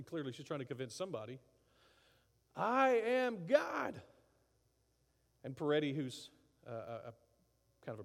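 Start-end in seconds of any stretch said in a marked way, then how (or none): 2.5-4.0 high, loud, slow grandiose cry; hammed-up triumphant shout; mock scream. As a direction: arms raised, proclaim it to the sky. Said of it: "screaming out".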